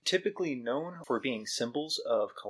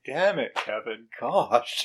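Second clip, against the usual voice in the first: acted exasperation, lightly done; fed up; slower than usual. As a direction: play someone so over it. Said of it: "so over this".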